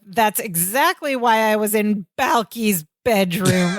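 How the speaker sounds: "Balki's bedroom" with both B's pointedly punched; stress on the B's. Retold or imitated. Retelling Jennifer's retort, stressed B's in "Balki's bedroom". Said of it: "she also emphasizes the B's".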